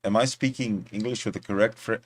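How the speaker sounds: lightly attempted French accent; a hint of mock French accent. Shown as a demonstration. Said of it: "How's my French accent?".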